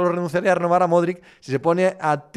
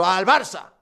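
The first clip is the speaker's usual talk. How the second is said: mock insistence; slower than usual. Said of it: "el periodista lo más que puede decir es".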